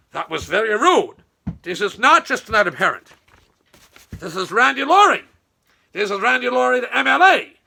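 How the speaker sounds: imitating Randy. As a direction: play the offended politician. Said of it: "Randy was not pleased".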